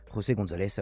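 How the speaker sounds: José González with the J as a throaty Spanish jota; prononciation espagnole. Real, not acted. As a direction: say "José" the Spanish way, with a guttural first sound. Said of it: "s'il faut le prononcer à l'espagnol". (prononcer « José » à l'espagnole, avec la jota raclée)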